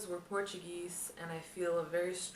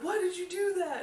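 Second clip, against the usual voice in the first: higher, louder baffled demand; startled yell; 13 semitones higher, 7 dB louder than usual. Retold or imitated. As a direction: yell it like you were just woken. Brother confused and upset, yelling.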